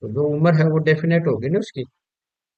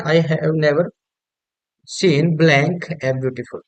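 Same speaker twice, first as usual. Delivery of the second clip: slow dictation read; much slower than usual. Shown as a demonstration. Teacher reads quiz sentence aloud.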